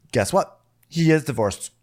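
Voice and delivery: lightly mock dramatic announcement; big-twist reveal. The speaker breaks the divorce news, mock big reveal. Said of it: "says it like it's a big twist".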